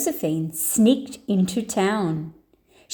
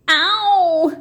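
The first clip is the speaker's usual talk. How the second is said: high, louder yelp of pain; higher, louder pained cry; shriek; 7 semitones higher, 5 dB louder than usual. A narrator's reading. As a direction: yelp as the ankle twists. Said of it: "shrieked the prima ballerina".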